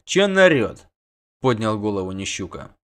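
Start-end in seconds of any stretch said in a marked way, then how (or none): 0.0-0.9 gruff grumble. A narrator's reading. Grumbling at the shouter.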